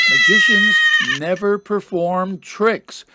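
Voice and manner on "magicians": squeaky high voice. Pretend. Relaying Houdini's complaint, voice shoots up.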